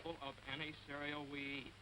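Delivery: sing-song poem recital. Acted. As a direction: recite it like a sweet verse. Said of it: "I want to share a little poem".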